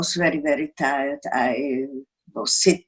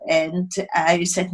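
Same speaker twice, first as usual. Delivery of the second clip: normal talking voice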